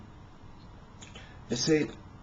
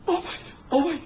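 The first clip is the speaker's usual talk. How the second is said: clutch your pearls, scandalized; shocked lady; 13 semitones higher, faster than usual. Retold or imitated. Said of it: "some lady goes".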